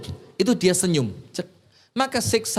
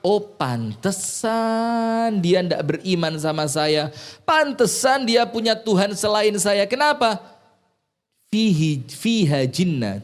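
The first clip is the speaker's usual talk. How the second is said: mock Pharaoh; slower than usual. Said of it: "Fir'aun bilang".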